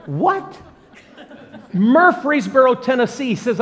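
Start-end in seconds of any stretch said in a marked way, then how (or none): 0.0-0.6 1 surprised. Real, not acted. Stunned at the stranger's hometown. 1.7-3.3 higher and louder, amazed; disbelieving echo. Retold or imitated. Echoing the town in disbelief.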